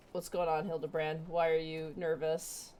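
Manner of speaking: voicing a pompous inspector; theatrical dialogue read; game character voice. Reads Hildibrand scene dialogue.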